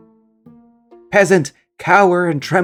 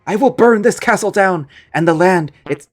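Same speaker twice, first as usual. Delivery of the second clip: threatening ghost; 4 semitones higher than usual. Acted. Ghost villain threatens to burn the castle to the homeowner.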